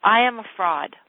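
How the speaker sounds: firm declaration. Shown as a demonstration. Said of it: "I want you to say over and over".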